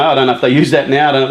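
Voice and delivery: ordinary talk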